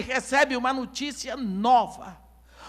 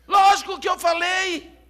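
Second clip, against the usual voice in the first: louder, higher offended retort; indignant retort; 6 semitones higher, 6 dB louder than usual. Acted. Messenger answering the mocking crowd: indignant loud retort. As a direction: snap back, insulted.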